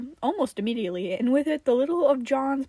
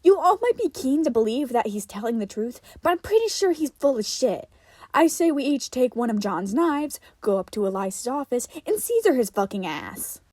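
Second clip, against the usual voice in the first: aggressive; 2 semitones higher, 6 dB louder than usual. Acted. Melanie urging violence.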